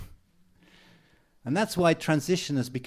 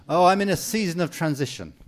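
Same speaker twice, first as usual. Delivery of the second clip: weary sigh; 2 semitones higher, 7 dB louder than usual. Retold or imitated. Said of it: "that's how they say it".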